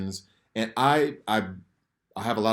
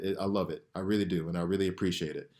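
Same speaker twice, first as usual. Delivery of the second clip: emotional; 3 semitones lower, 5 dB quieter, faster than usual. Real, not acted. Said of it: "before I get too emotional".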